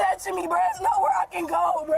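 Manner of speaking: gasping between words; panicked rapid breathing; hyperventilating. Real, not acted. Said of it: "I'm hyperventilating".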